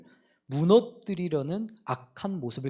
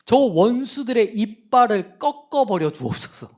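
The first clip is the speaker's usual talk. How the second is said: loud, higher imprecatory cry; David crying out against his enemies, loud and bitter; cursing prayer; 5 semitones higher, 7 dB louder than usual. Retold or imitated. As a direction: hurl curses on your enemies to heaven. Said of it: "다윗도 뭐라고 고백을 하냐면".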